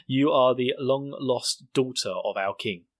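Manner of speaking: slow, solemn mock proclamation; envoy lady impression. Lady from another nation hails Mikasa, slow proclamation. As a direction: announce it grandly, word by word. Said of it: "the lady who's from this other nation".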